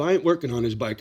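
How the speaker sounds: retold refusal. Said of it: "Sorry, I get worked up".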